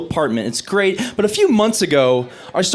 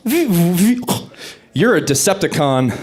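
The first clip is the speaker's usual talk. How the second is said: mock robot reveal; much slower than usual. Punchline voice for transformed woman.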